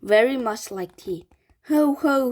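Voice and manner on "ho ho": sly whispered ho-ho, higher; mock laugh. A narrator's reading. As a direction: gloat as if catching them out. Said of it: "she cried".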